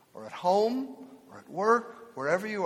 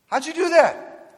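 high, slow astonished question; amazed wife; 11 semitones higher, 7 dB louder, slower than usual. Retold or imitated. Wife asks the old shepherd, high and amazed. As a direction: marvel at the trick. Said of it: "she turns around".

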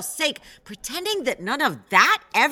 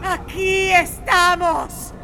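tearful; 6 semitones higher, slower than usual. Acted. Answering ghost, crying heard.

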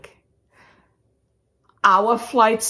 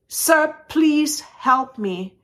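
high, drawn-out retold plea; pleading; 10 semitones higher, much slower than usual. Passenger begs the airline man for help, slow high plea. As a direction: beg slowly, spacing out the words.

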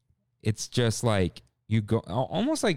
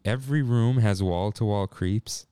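voice cracking; slower than usual. Retold or imitated. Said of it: "Like, his voice cracks".

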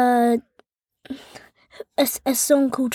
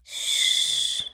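shushing; 12 semitones lower, 6 dB quieter than usual. Real, not acted. Shushing the mother.

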